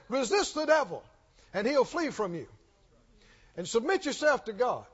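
reciting the verse in the wrong order; the verse reordered. Shown as a demonstration. Preacher reciting the verse in the wrong order. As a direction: run the verse backwards as a hypothetical. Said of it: "The Lord could have just as easily said".

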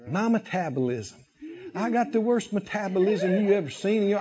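low, soft self-pitying grumble; mock downcast complaint; defeated complaining. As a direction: moan it low and hushed, poor me.

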